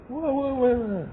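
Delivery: put-on high, bright-eyed wah wah wah of a caught kid; child's exclamation. Son caught by his father, a high excited wah wah wah.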